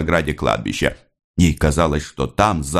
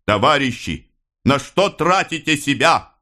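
strong voice; 8 semitones higher than usual. A narrator's reading. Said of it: "гудел его крепкий голос".

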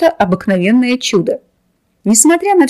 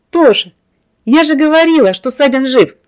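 put-on bright chirpy girlish voice, higher; cartoon princess; 5 semitones higher, 4 dB louder than usual. A narrator's reading. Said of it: "весело прощебетала Златовласка".

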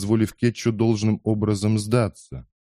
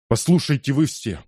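commanding, raised call to all; 6 semitones higher, 3 dB louder than usual. Acted. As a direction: demand everyone's attention. Кетчу breaks free, calls out. (громкий призыв ко всем)

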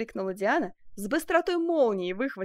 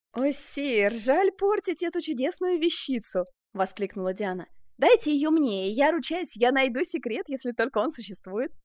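much higher, louder pleading; eager exclamation; 5 semitones higher, 4 dB louder than usual. A narrator's reading. Diane begging the king for the flower, eager.

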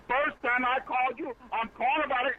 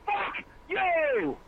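angry shout; 9 semitones higher than usual. Real, not acted. Angry man cussing out caller.

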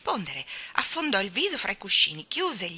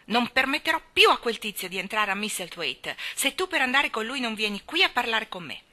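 mildly angry, louder ultimatum; indignant; 4 semitones higher, 4 dB louder than usual. Acted. Colin forbids Deacon's visits, indignant. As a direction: lay down the law, peeved.

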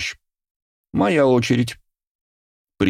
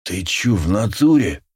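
wheezing thug voice; hoarse wheeze; 2 semitones higher than usual. A narrator's reading. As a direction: rasp it out hoarsely. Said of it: "засипел он".

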